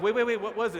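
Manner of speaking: quick, puzzled double-take; mock confusion. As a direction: jump in, suddenly thrown. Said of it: "and you're like".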